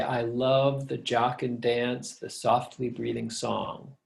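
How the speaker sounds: slow, easy reading of a verse line; normal reading. Shown as a demonstration. Teacher shows students a normal way of speaking the line, natural reading. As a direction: read the verse naturally, without forcing the beat. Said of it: "in a normal way of speaking, you would say".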